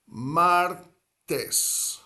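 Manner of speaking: martes split into MAR, pause, TES; syllable by syllable. Shown as a demonstration. Spanish teacher building Tuesday from the word for ocean, syllable by syllable. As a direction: break martes in two, starting high on MAR. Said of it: "Two syllables".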